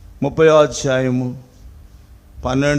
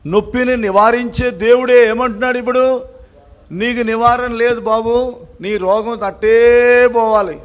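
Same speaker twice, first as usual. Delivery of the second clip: high, raised pulpit voice with a long stretched word; emphatic preaching; 9 semitones higher, 7 dB louder than usual. Real, not acted. Preacher voicing God telling the sick man there's no cure, emphatic preaching. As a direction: hammer the hard verdict home.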